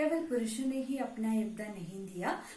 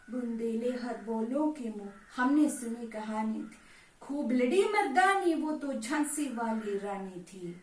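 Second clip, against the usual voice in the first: poem recitation. Acted. Reciting Subhadra Kumari Chauhan's poem on the Rani of Jhansi, declaimed. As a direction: declaim the verse in swelling, falling lines.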